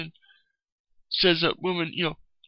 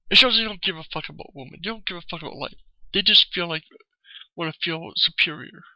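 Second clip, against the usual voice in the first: angry rant; faster than usual. Real, not acted. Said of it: "but I'm just pissed off".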